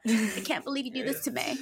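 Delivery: high-pitched put-on victim voice; mock wounded complaint. Imitates Sammy feeling wronged.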